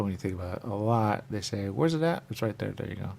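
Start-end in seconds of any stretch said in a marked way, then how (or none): 1.7-2.2 high mock question. Costco shopper asking.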